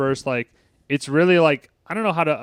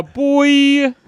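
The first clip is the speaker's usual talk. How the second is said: much higher, louder put-on yelp; mock cheer; 12 semitones higher, 8 dB louder than usual. Cheering the line in a much higher voice. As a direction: squeal it out.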